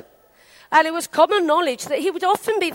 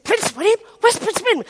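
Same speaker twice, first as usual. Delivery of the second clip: higher, incredulous retold questions; surprised questioning; 6 semitones higher than usual. Peter asking where the prince is, surprised. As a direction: ask as if you can't believe it.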